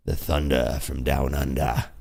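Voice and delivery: put-on playful Australian accent. Plays on winner's Australian nickname.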